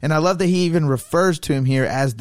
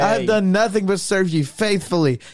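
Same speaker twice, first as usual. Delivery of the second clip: higher, mock-wounded protest; lightly acted righteous complaint; aggrieved Jacob; 5 semitones higher than usual. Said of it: "He's like".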